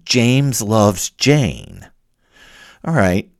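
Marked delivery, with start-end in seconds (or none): 0.0-1.9 James loves Jane drawn out slowly; slow dictation. Shown as a demonstration. Showing the student's changed copy, slow and deliberate. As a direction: read the swapped sentence slowly. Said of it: "you change it to".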